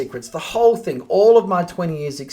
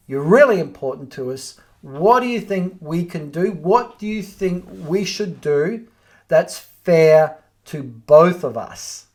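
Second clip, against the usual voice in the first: reasonable, appealing. Shown as a demonstration. Agent inviting a valued owner to suggest a deal, warm. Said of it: "that's appealing to a reasonable person".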